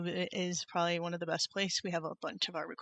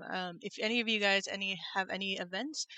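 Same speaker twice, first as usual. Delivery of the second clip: tinny, echoey mic sound; metallic echo. Real, not acted. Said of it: "like, metallic or with echo".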